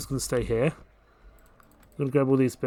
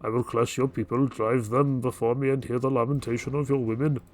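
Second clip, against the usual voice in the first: put-on terrible Arnold accent. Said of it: "that was a terrible accent".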